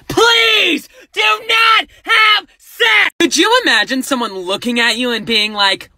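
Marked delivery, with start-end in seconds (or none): 0.1-3.1 higher, louder, slow mock-nice plea. Real, not acted. Asking viewers nicely not to have sex, loud slow plea. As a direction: plead loudly, drawing it out. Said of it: "I am asking you nicely".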